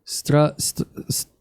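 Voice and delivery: sounding out an unfamiliar word; hesitant beginner reading Russian; halting reading. Real, not acted. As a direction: stumble over the first sounds, breaking off. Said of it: "I can't read it that well yet".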